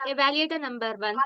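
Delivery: usual speaking voice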